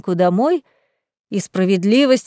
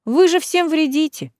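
sincere surprise; 7 semitones higher than usual. A narrator's reading. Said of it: "искренне удивился Грэм".

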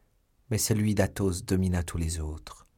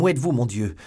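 loud, higher searching call; anxious shout; 4 semitones higher, 6 dB louder, faster than usual. A narrator's reading. Young man searching for his beloved, anxious shout. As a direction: shout out, desperate to find her.

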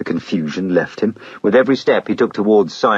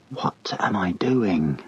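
whisper; 6 dB quieter, much slower than usual. Acted. Man catching himself, alarmed.

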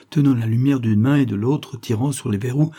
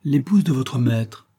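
haughty; 4 semitones higher, 3 dB louder than usual. Acted. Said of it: "avec hauteur".

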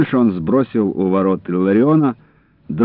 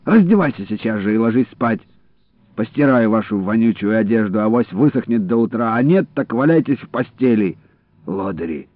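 usual speaking voice

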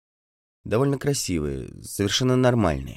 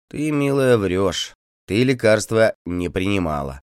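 stern and louder, higher at the start; 3 semitones higher, 4 dB louder than usual. Acted. Feldsher sternly scolds the peasant woman. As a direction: scold her firmly. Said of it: "строго молвил".

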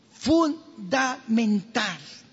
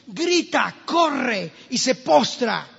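preaching climax; 3 semitones higher, slower than usual. Acted.

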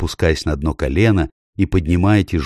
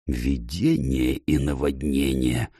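barely audible, slow groaning words; terrified dwarf moaning softly; faint moan; 4 semitones lower, 6 dB quieter, slower than usual. Acted. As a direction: moan it under the breath. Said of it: "едва слышно простонал Трам".

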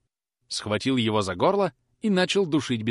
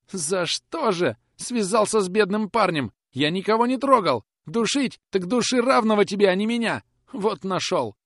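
much higher, louder frantic pleading; terrified plea; 11 semitones higher, 5 dB louder than usual. Acted. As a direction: beg for your life. Boy pleading while strangled. (мальчик в ужасе умоляет, намного выше)

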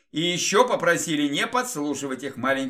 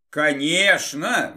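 exclaiming; 3 dB louder, much slower than usual. Acted. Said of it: "воскликнула эльфийка".

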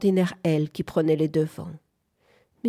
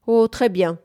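exasperated; 5 semitones higher, 7 dB louder than usual. Acted. March agacée répond.

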